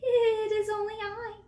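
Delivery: high, loud, quavering little goat; frightened little goat. A narrator's reading. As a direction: plead in a tiny goat's high voice. Frightened littlest goat answers troll.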